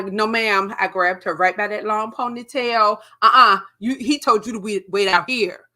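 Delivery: loud stern command; angry order. Retold or imitated. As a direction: throw her out with force.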